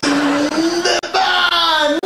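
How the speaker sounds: high, very slow triumphant cry; drawn-out shout. Acted. Punchline yelled to the crowd about the barn owl. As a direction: stretch it out like a grand reveal.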